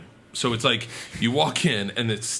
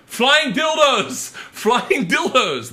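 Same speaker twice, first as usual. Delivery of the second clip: high, loud, slow yelled chant; drunken heckling shout; 11 semitones higher, 6 dB louder, much slower than usual. Retold or imitated. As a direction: bellow it at the stage like a rowdy drunk. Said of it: "I start going".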